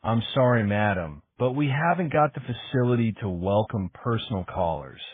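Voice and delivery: a light, mimicking West Country lilt; barely-there West Country accent, mocking. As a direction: poke fun at the dim clerk in a faint West Country accent. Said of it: "She mimicked a West Country accent".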